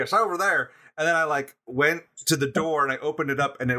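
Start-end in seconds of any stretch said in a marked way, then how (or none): 0.0-0.7 higher-pitched, poorly faked Southern accent; attempted Southern accent. Drummer imitating the venue owner, badly faked Southern accent. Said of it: "I can't do a Southern accent".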